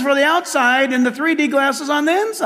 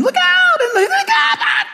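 high, loud "Look out!"; shouted warning, much higher; mock warning shout; 4 dB louder, slower than usual. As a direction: yell it like riders ducking. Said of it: "everyone's ducking".

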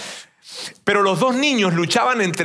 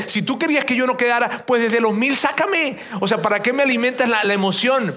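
indignant complaint; 6 semitones higher than usual. Retold or imitated. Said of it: "yo me enojé con Dios".

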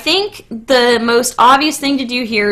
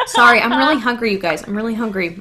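talking through a mouthful of food; chewing while talking; 2 semitones lower, faster than usual. Real, not acted. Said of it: "I apologize for the chewing on the podcast".

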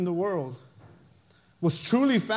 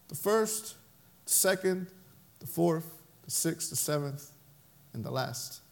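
much softer and lower, dying away; fading to a hush; 4 semitones lower, 8 dB quieter than usual. Acted. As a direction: let each note name fade into memory. Remembering mom's pauses, fading.

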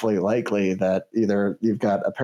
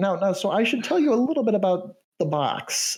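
canary voice; 6 semitones higher than usual. Acted. Canary NPC warns about box.

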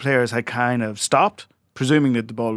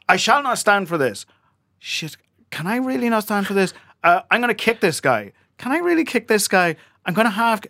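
higher, hammed-up inner dithering of a defender; mock inner monologue; 8 semitones higher than usual. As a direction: voice his wavering thoughts, lightly mocking. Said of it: "he was going".

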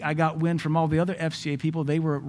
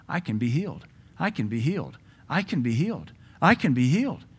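voice of the heart. Acted. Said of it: "That's the voice of the heart".

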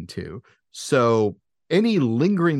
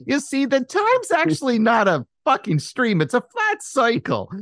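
salon gossip over dryer; 13 semitones higher than usual. Acted. S0 voices hairdresser-ish conspiracy talk.

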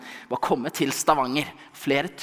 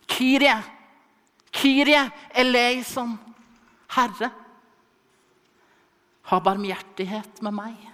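insistent shouting; 9 semitones higher, 6 dB louder than usual. Acted. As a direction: shout it over the crowd, refusing to be silenced. (høyt, inntrengende rop)

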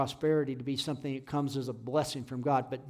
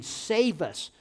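raised, retold plea; pleading; 4 semitones higher than usual. Preacher voices David pleading with God, raised plea. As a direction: plead it as a short cry. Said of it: "David is pleading with God".

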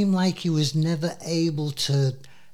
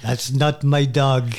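put-on comic French accent, a little louder; mock French accent; 3 dB louder than usual. Host finishing the dog joke, hammed-up French accent. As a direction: deliver a punchline in fake French accent. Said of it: "it's a French accent".

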